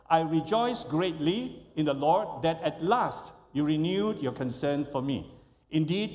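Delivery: congregation reading scripture aloud; many voices in unison. Real, not acted. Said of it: "let's read it aloud together".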